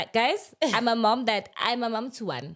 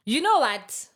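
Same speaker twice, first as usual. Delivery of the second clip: excited call; 7 semitones higher, 6 dB louder, slower than usual. Retold or imitated. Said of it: "I was like".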